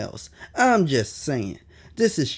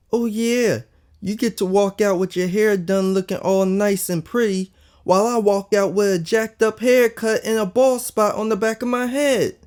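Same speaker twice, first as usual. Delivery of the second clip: tearful shout; 7 semitones higher than usual. Acted. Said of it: "I shouted as I started to tear up".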